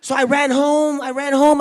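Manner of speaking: high, loud rush; high, loud panicked retelling; frantic. Retold or imitated. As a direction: blurt it out in a panic. Upset kid rushing home.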